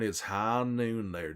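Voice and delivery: slow high noon drawl, like a western gunslinger; slow cowboy drawl. Pretend. Streamer saying a requested line to chat, slow drawl. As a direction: draw out high noon slowly. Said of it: "Can you say it's high noon?".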